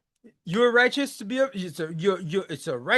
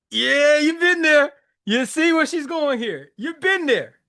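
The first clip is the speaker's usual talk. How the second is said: higher, louder knowing outburst; animated recognition; 6 semitones higher, 6 dB louder than usual. Real, not acted. Telling guys they have been there, animated recognition. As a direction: call it out like you know the feeling.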